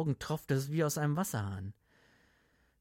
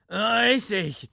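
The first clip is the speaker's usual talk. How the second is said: put-on high, loud drunken boom; 9 semitones higher, 9 dB louder, slower than usual. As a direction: boom out the stammer. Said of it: "dröhnte Gattelin".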